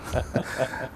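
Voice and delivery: short, quiet breathy chuckle; soft chuckle. Real, not acted. Pastor amused at his own bandit past, soft chuckle. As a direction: chuckle softly at your own confession.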